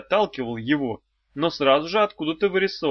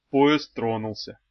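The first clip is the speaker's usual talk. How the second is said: slow, low and weary; melancholy; 3 semitones lower, slower than usual. Acted. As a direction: sigh the words out sadly. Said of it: "меланхолично сказал Мошкин".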